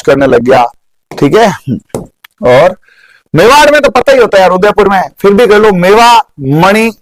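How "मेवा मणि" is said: drawn-out mnemonic. Shown as a demonstration. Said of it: "मेवा एक मण लेकर".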